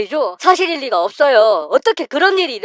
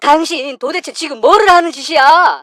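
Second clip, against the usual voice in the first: shocked outrage; 3 semitones higher than usual. Acted. Husband catching his wife beating his father, outraged. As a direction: demand answers from her, stunned and furious.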